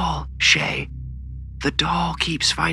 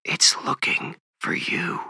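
slow, high frightened whisper; 7 semitones higher, slower than usual. A narrator's reading. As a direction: whisper a slow warning to your son. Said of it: "Valerie whispered".

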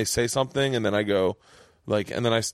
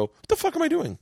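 self-exasperation. Retold or imitated. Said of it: "and I go".

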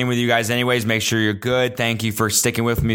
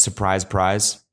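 puzzled echo; 2 semitones lower, much slower than usual. Real, not acted. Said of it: "Which I realized".

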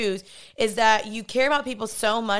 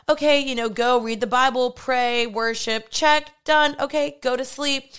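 mock checklist; 2 semitones higher than usual. Mocking her own rote routine as a brisk checklist. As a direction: rattle it off like chores to tick.

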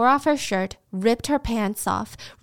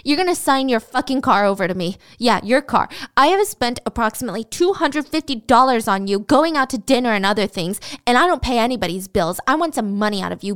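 angry yelling, louder; retold scream; 2 semitones higher, 5 dB louder than usual. Boyfriend screaming demands at Sandy, angry. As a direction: bark demands at her. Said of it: "and he screamed".

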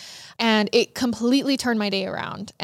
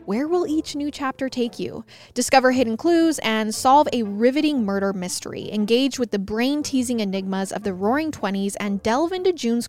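ad read. Acted. Host reads game ad.

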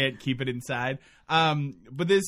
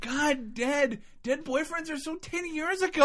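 put-on bored teen; 11 semitones higher than usual.

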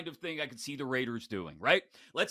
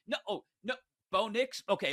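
ordinary delivery

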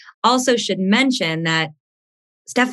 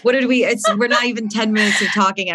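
teary; 3 semitones higher than usual. Real, not acted. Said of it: "I'm actually crying".

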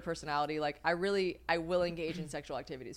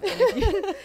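laughing; 11 semitones higher, 8 dB louder than usual. Real, not acted. Laughing mid-sentence.

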